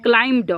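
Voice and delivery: क्लाइम्ड going straight from m to d; silent b. Shown as a demonstration. Teacher drilling the class, क्लाइम्ड with the b left silent. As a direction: say क्लाइम्ड with no b before the d. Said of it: "तो इसमें ब क्या है".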